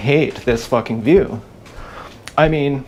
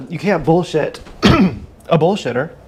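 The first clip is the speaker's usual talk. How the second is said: drawn out, each word landed; slow emphatic repeat; 2 semitones higher, slower than usual. Shown as a demonstration. To the listener, repeating the saying slowly and weightily. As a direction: say it again slowly to drive it home.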